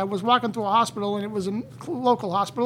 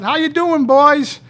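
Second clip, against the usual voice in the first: put-on higher, louder cocky hello to the boys; cocky greeting; 6 semitones higher, 8 dB louder, slower than usual. Cocky greeting to the three doctors at the fair. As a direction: swagger up and call out to them.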